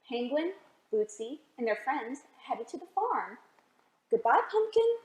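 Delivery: put-on storybook read-aloud for little kids; gentle picture-book narration; reading to children.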